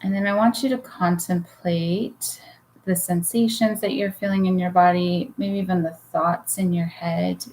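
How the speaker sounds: unhurried guiding voice with long pauses; guided meditation. Real, not acted. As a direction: lead listeners gently into relaxation, leaving room to breathe. Leads a guided relaxation.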